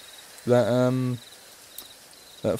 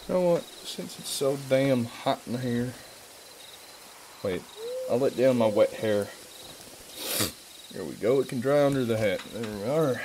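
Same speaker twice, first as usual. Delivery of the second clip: put-on a light American cowboy accent, lazy and easygoing; lightly put-on American cowboy accent; 4 dB quieter than usual. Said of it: "I'll stop doing this accent".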